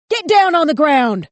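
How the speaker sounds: hysterical shout. A narrator's reading. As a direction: yell it in hysteria, too high. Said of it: "Hysteria pitched his voice up too high".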